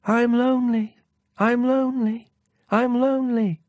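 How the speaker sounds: high hollow echo of lonely. Acted. The echo returns the prince's words, high and hollow. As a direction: repeat it back like a fading echo. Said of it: "the echo answered".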